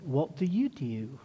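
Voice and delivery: attempted Australian accent, rising at the end; badly faked Australian question. Shown as a demonstration. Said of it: "in my best Australian accent".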